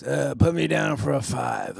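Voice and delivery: a hint of undead monotone; zombie voice. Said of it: "in a zombie voice".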